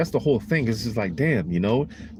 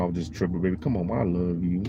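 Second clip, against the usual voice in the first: 1 soft pleading; 4 semitones lower, 3 dB quieter than usual. Pretend. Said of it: "you know how Jake get".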